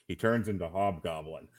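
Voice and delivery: low, hushed aside to his wife; quiet aside nudging his wife at the film. Retold or imitated. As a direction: lean over and murmur it to her. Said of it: "nudge my wife and go".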